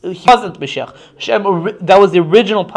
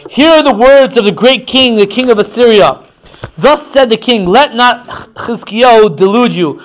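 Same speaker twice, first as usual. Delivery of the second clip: declaimed royal proclamation; emphatic, raised public recital; calling out; 3 semitones higher than usual. Acted. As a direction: call out the king's message to a crowd. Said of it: "he calls out to them".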